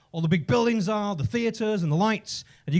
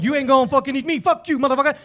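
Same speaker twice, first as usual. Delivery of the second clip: higher, louder cocky comeback; defiant rat; 4 semitones higher, 6 dB louder, faster than usual. Acted. Rat to the cat chasing it, loud mock defiance. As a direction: throw it back defiantly as the chased rat.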